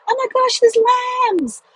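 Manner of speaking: high, excited gasp at the lambs; sudden delight. Real, not acted. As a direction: burst out the moment you spot them. Spots lambs while driving.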